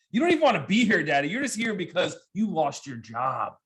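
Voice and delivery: put-on mean little girl taunt; taunting daughter. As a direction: daughter taunting jobless dad. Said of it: "daughter taunting".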